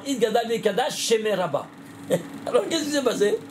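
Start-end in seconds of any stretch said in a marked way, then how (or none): 0.0-1.7 "Kadash" runs straight into "Shemé", the final sh linked to the next word; wrong liaison demo. Shown as a demonstration. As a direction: slur "Kadash Shemé" together like a careless French speaker. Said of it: "on fait la liaison".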